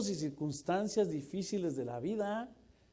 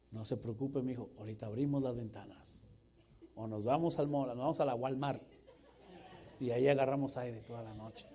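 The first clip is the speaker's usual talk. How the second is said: calm dad; 2 semitones lower than usual. Acted. Acted calm dad answering.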